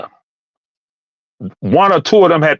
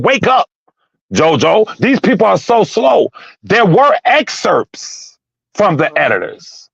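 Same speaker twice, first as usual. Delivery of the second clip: heated, pitched up, pressing the point; raised voice; 3 semitones higher than usual. Real, not acted. Host scolding his co-host Jojo, raised and heated. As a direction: push it at him like you're fed up. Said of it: "I'm sorry for raising my voice".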